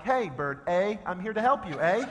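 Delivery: mock Canadian. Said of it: "so I was like".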